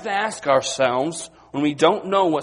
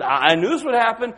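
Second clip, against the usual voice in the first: told-you-so; 7 semitones higher, 5 dB louder, faster than usual. Retold or imitated. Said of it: "Maybe one of them said".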